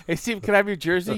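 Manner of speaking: high, fast pleading fan voice; commercial fan imitation. Mimicking the jersey commercial for co-host, high fan voice. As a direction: rattle it off high and loud like an eager fan. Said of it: "that N F L Shop commercial".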